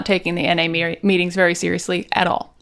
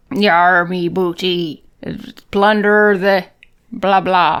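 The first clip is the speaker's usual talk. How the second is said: put-on pirate accent; slower than usual. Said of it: "you do a pirate accent".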